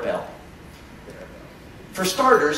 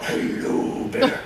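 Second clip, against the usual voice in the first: slightly lowered, polite talk to a bear; low testosterone voice. Shown as a demonstration. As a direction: keep it low and courteous to the bear. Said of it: "You wanna go low".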